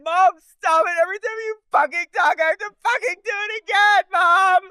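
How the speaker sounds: very high, fast whining rant; mock bratty teen. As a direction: rant at mom like a spoiled girl. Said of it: "She goes".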